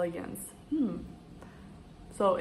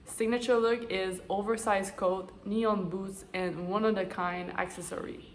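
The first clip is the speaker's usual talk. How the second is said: stuffy, congested nasal voice; blocked nose. Real, not acted. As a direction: talk through a blocked nose. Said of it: "I'm not talking like this all the time".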